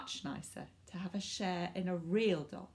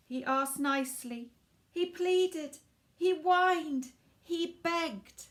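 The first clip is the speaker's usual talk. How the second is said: rising, pleading louder each time; building pleading; 9 semitones higher, 7 dB louder, slower than usual. A narrator's reading. Narrator building up Danny's begging, rising pleading. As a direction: beg harder with every line.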